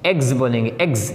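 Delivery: एग्ज ending in a clear z, not s; demonstrating the final z in एग्ज; z sound in eggs. Shown as a demonstration. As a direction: end एग्ज on a buzzing z. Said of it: "इस एस को हम जा की आवाज़ में पढ़ेंगे".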